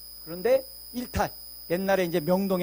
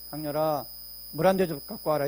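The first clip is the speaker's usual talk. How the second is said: calm request; 5 semitones lower than usual. Retold or imitated. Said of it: "그냥 편하게".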